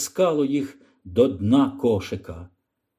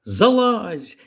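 shout; 5 semitones higher than usual. Acted. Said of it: "крикнула Ліра Роджеру".

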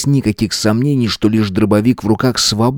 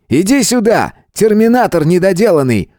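high-pitched, scornful command; shouted order; 10 semitones higher than usual. Acted. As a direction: order them over with raised pitch and contempt. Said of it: "закричал Дмитрий".

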